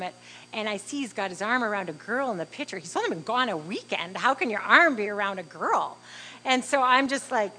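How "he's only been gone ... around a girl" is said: incredulous swooping question, louder at the end; mildly scolding disbelief; indignant mother. Retold or imitated. Mother reacting to son's picture with a girl, indignant.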